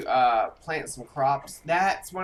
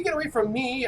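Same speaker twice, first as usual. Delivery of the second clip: raised, less shrill panicked cry; panicked yell; 9 semitones higher than usual. Pretend. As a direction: yell it, still scared but steadier. Fleeing a Wendigo in panic.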